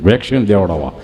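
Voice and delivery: low character voice; low, simple statement in character; friend Gabho. Acted. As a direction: drop the pitch well down for the friend. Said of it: "મને કહે કે".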